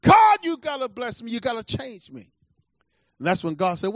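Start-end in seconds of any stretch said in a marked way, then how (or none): 0.0-2.3 impassioned prayer, acted without real tears; crying out to God. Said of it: "He was crying".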